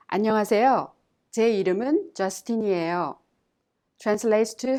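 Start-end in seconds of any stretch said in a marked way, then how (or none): 0.1-3.2 clear, careful model sentence; model reading. Shown as a demonstration. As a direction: say it for learners to copy. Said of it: "Let's examine the dialogue".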